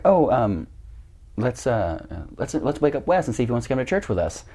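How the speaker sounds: hesitant, casual mock suggestion; imitated stepsister. Stepsister asking her dad about church, lightly imitated.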